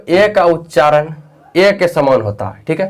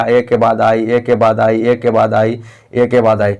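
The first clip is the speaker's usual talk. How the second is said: ए के बाद आई chanted over and over, stress on ए; drilled rule; 5 semitones lower than usual. Shown as a demonstration. Teacher drilling students on the spelling rule, repetitive chant. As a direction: repeat ए के बाद आई like a classroom drill. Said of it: "ए के बाद हमने आई लिखा".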